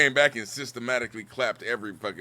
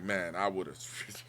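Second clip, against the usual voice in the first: slow mock reply; 7 semitones lower, 9 dB quieter, much slower than usual. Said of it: "And I was like".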